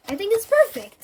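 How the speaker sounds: high, loud smug monster; gloating monster. Acted. Monster gloating over the M drawer. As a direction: gloat with delight.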